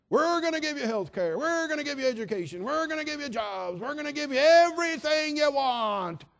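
mock politician. Preacher mocks candidates promising voters everything. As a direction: ham up an empty stump speech.

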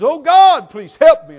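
high, loud begging cry; desperate plea. Acted. Hanging man cries loudly up to God. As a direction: beg God at the top of your lungs.

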